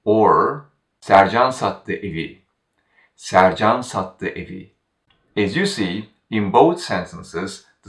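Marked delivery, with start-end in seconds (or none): 1.0-2.4 Sercan made prominent at the start; stress on Sercan. Shown as a demonstration. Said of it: "guide the listener to focus on Sercan". 3.2-4.7 Sercan made prominent at the start; stress on Sercan. Shown as a demonstration. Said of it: "guide the listener to focus on Sercan".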